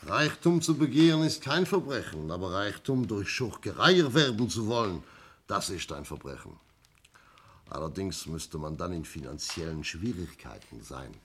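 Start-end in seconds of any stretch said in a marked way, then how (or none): 0.1-6.6 an inspector pronouncing a firm moral verdict; stern declaration. Acted. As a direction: lay down the law to the room. Inspector lectures suspects on motive.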